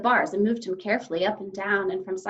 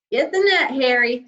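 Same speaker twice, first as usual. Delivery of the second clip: loud, higher mocking shout; jeering call; 3 semitones higher, 9 dB louder than usual. A narrator's reading. Second policeman shouts to his partner mockingly. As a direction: call out to your partner, laughing at her. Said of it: "said the second policeman".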